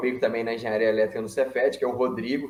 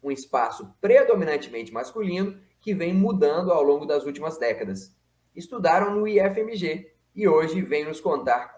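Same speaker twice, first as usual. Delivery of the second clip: lively, higher-pitched presenter's introduction; program intro read; 5 semitones higher than usual. Acted. Host presenting two young engineers to viewers, announcer-style intro read.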